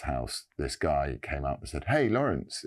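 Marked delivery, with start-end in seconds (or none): 1.8-2.6 high, bright mock-friendly hello, retold; imitating a friendly greeting. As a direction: sweetly call his name as if pleased to see him. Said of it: "in a sort of very nice and upbeat way".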